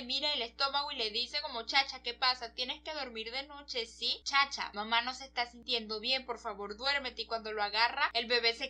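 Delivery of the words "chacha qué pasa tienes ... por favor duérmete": soft, hushed bedtime plea; soothing parent. Retold or imitated. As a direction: gently coax a baby to sleep. Parent soothes unborn baby at night.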